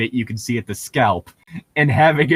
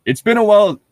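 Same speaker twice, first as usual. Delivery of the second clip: cowboy voice; 10 semitones higher, 6 dB louder, faster than usual. Acted. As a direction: say it like an old-west cowboy. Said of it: "that was not the cowboy voice we were using".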